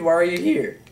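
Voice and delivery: accidental real squeak in the voice; voice crack. Real, not acted. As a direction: voice cracking upward on a question. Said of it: "Ah, voice crack".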